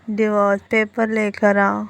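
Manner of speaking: slow, stretched tipsy words. Acted. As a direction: drag it out slowly, as if drunk. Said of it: "वो बिल्कुल slow बोले जा रहा था". (धीरे-धीरे, नशे में खींचकर)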